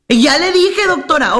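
acted-out exasperated patient; protesting patient. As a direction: insist it has already been done. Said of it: "Me llegan con esas al consultorio".

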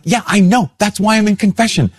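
high exasperated snap back; mock exasperated reply; annoyed retort. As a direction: answer her with irritation. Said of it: "And I was angry".

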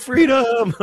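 high hammed-up Scottish battle cry; mock Braveheart cry. Priest shouting the Braveheart line in a terrible Scottish accent. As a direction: yell it like William Wallace in a bad Scottish accent. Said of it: "a terrible Scottish accent".

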